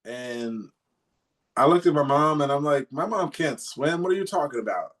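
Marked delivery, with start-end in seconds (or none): 2.9-4.9 higher-pitched retold disbelief; recounted baffled protest, pitched up; incredulous protest. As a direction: object in mild, high-pitched disbelief. Retold protest at father's wild order.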